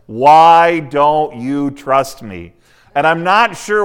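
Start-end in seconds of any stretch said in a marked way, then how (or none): 0.1-2.5 slow, drawn-out whining plea; mock tearful plea. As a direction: stretch the plea out like fake tears. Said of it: "Delilah cries and says".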